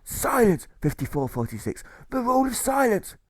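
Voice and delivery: worn-out jailer pleading for silence. Acted. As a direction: beg for silence like a tired jailer. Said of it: "the jailer pleads".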